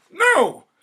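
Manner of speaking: very loud, high exultant no; triumphant cry. Acted. Wife cries to her husband, loud and triumphant. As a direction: crow it in triumph. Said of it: "she cried triumphantly".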